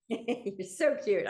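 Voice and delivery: slow words through a laugh; amused, drawn-out compliment; laughing fondly. Real, not acted. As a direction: laugh while you tease him. Reacting to host's praise.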